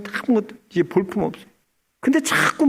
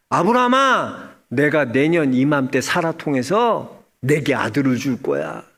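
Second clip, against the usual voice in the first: God; 6 semitones lower than usual. Retold or imitated. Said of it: "아브라함의 하나님이 어떤 복을 주시냐".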